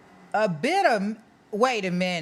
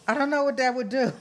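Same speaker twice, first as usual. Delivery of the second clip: laughing bewilderment; 3 semitones higher, faster than usual. Real, not acted. Laughing at milk idea.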